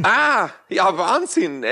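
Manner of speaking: lightly voiced amazed Bavarian; a hint of mock astonishment; Polt sketch voice. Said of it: "dieses Gerhard Polt-Stück".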